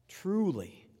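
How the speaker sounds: Truly said slowly with a falling stress; emphatic truly. Retold or imitated. Jesus answering the thief, with emphatic truly. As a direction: lean on Truly, then let it drop. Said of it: "he adds that for emphasis".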